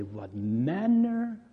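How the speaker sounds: slow, hushed amazement; slow down and marvel; awed wonder. Retold or imitated. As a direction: awe at the miracle. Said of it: "they say".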